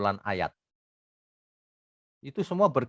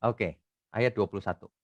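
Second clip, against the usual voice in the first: ordinary talk, nothing marked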